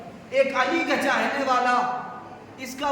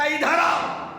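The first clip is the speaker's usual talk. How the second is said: raised call across the house; 3 semitones higher than usual. Retold or imitated. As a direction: call her over, voice up. Husband calling his wife.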